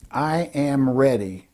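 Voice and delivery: slow, deliberate readiness; definitive. Shown as a demonstration. Speaker coach models a power phrase, slow and definitive. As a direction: give each word its full time. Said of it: "hear what they sound like".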